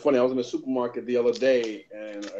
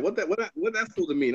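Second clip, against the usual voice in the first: slightly affronted lady, pitched higher; lightly voiced lady; 6 semitones higher than usual. Lady questions his Jersey remark, lightly imitated, higher and challenging. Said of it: "One lady was like".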